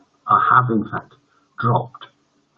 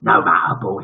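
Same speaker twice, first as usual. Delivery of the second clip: growled; 3 semitones lower than usual. Acted. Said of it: "he growled".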